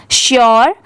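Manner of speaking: श्योर said "shor", opening on sh; sh sound for repeating. Shown as a demonstration. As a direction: model श्योर clearly as one sh-word. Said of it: "आप भी मेरे बाद repeat करिए".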